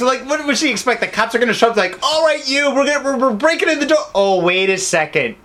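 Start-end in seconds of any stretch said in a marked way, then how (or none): 2.0-4.0 higher, hurried cop announcing a raid; bark-free mock police order, rushed; lightly voiced raiding cop. Acting out cops raiding.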